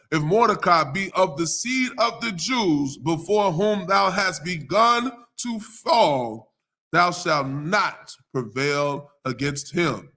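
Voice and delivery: slow, measured Bible reading; scripture reading. Acted. Pastor reading Esther to his congregation, slow and measured. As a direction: lay each verse out deliberately.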